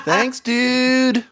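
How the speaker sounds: squeaky bro thanks; playful high thanks. Acted. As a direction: toss off a silly high thanks.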